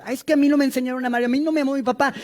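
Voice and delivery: fast, mock whining excuse; whiny excuse. Preacher mocks a parent excusing himself, fast whine. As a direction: rattle off a self-pitying excuse. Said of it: "podemos ser muy duros".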